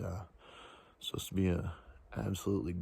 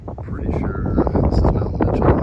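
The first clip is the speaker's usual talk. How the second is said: raised voice against a strong gale; shouting over wind; 12 dB louder than usual. Real, not acted. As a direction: speak up so the wind doesn't drown you. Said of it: "hopefully you can hear me over the wind".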